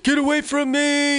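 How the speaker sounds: high-pitched mock panicky yell; high retold outburst; imitated freak-out. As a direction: mimic a man losing it, pitch shooting way up. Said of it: "like, lost it".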